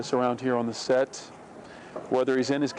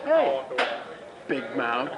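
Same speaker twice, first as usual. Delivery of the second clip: mock taunting call, pitched up; imitating a taunt; slower than usual. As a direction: playfully mimic someone jeering. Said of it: "'Cause he went".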